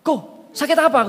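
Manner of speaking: high, loud, slow question; calling out. Retold or imitated. Preacher asking the sick man loudly, slow call. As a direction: call across the crowd. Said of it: "Aku bilang gitu".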